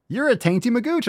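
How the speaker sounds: high, sing-song taunt; mock insult thrown high and playful; teasing taunt.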